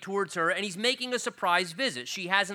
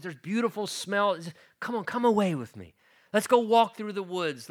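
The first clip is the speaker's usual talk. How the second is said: quick, higher eager invitation; excited; 4 semitones higher, 4 dB louder than usual. Acted. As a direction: coax a sweetheart outside excitedly. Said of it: "And he's so excited".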